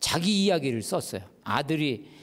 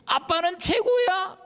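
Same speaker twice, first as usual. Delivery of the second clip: put-on high, slow little child praising daddy; child's voice; 3 dB louder, slower than usual. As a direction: draw it out like a proud little kid. (아빠를 칭찬하는 어린아이가 느리고 높게)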